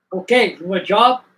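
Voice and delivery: a hint of Cajun Southern, punched out; Cajun Southern accent. Chef offering a job, imitated Cajun Southern accent. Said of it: "Cajun Southern accent they had".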